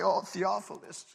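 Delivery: soft, tender plea; pleading. Retold or imitated. Preacher pleading softly with the returning man. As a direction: gently beg him to come back. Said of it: "I'm pleading with this man".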